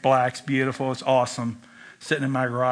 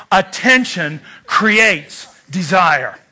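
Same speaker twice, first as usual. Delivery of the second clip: slow slogan; slower than usual. Shown as a demonstration. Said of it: "Say that with me".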